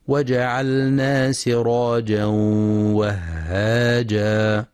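slow, measured tajweed chant; Quran recitation. Acted. Teacher reciting the verse to be studied, slow tajweed recitation. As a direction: recite slowly with drawn-out long vowels.

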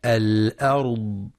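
الأرض with dark, full r and d; الأرض said slowly, heavy ending; heavy ra and dad. Shown as a demonstration. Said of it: "لتفخيم الراء والضاد".

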